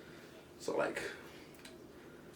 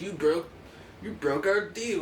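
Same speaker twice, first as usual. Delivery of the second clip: higher, indignant mock protest; mock accusation; 5 semitones higher, slower than usual. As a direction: accuse in a raised, drawn-out voice. America and England accuse Stalin.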